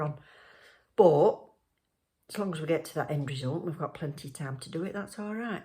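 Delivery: muffled through a mask; through a face mask. Real, not acted. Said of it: "Excuse my mask".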